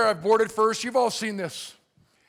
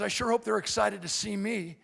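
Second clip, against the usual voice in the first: softly, with a touch of emotion; emotional; 5 dB quieter than usual. Retold or imitated. Soldier home from Baghdad about his family, quietly emotional. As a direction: imitate a soldier quietly holding feeling in. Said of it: "He gets emotional".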